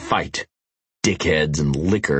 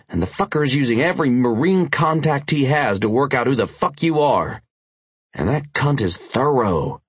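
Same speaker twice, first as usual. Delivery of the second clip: urgent biker voice; 6 semitones higher than usual. Acted. Tanner's voice.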